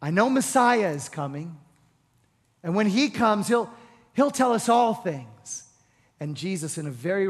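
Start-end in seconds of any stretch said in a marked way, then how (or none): 0.0-5.6 eager declaration. Retold or imitated. Woman declaring Messiah hope.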